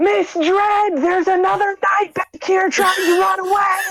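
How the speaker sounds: very loud, very high-pitched shout. Playing a character who magically makes his voice loud: real loud voice. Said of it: "casts Thaumaturgy to make his voice real, real loud".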